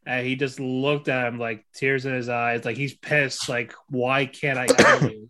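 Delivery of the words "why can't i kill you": mild, pained yell, a bit louder; half-acted shout of frustration; retold yell. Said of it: "But he yelled that".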